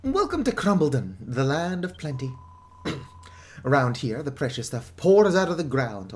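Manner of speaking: a hint of a proud, weary townsman; lightly voiced villager. Villager greeting the newcomers, lightly voiced. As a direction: read the villager's welcome with some flair. Reads villager's lines in character.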